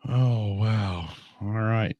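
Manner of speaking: losing his voice, hoarse and worn; a tired, hoarse voice. Real, not acted. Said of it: "I'm losing my voice again".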